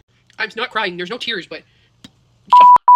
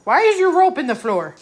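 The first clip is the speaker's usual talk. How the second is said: mild scolding of dog; 4 semitones higher, 6 dB louder than usual. Real, not acted.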